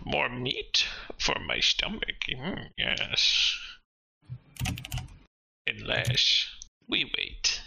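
slow, half-whispered hungry creature; shadow creature voice. Acted. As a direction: hiss it from the shadows, slowly. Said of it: "this thing in the shadows is like".

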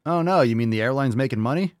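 sarcastic, hammed-up disbelief; sarcastic mock shock. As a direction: act scandalized by the obvious. Sarcastic mock shock at profit motive.

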